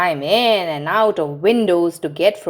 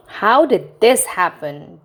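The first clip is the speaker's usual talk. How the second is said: bewildered; 4 dB louder, slower than usual. Acted. Daddy asking, bewildered.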